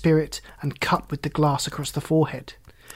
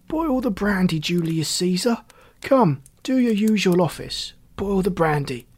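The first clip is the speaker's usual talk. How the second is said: lightly voiced drunkard, pitched up; drunken, demanding Beckwith; 3 semitones higher than usual. Drunkard ordering his associate about with a saucepan, demanding.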